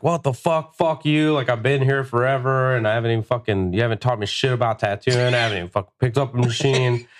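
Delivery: high-pitched indignant outburst; retold yelling back. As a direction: retell yelling back at the boss. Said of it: "I just fucking yelled back".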